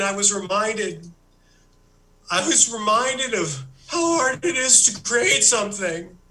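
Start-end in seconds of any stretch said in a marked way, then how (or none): 2.3-6.2 mock-tearful Australian accent, voice catching and rising; hammed-up tearful confession, slowed; choked up. Comedian to the audience, confessing his despair in a mock-tearful Australian accent.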